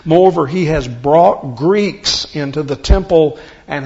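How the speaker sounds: loud crowd cry from scripture read aloud. Acted. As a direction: call out to the whole crowd for help. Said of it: "crying out".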